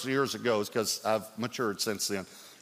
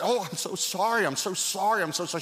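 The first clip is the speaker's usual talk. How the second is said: retold apology; 7 semitones higher than usual. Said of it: "I immediately said".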